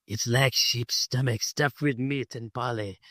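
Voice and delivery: imitated Scottish accent with a slight French tinge; Connor's shaky Scottish accent. Podcaster imitating Connor explaining haggis to Ramirez, in a shaky Scottish-French accent. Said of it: "has this shaky Scottish accent that's slightly French".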